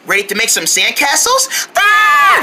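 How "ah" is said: high, loud sudden shriek; startled scream. Acted. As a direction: jump with fright. Sudden fright at the sandbox.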